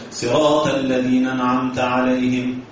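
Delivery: rushed chant where أنعمت loses its hamza, "نعمت"; swallowed hamza. Retold or imitated. Teacher mocks hasty imams who drop letters, clipped chant. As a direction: slur the hamza of أنعمت away. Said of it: "فين الهمزة بتاعت أنعمت".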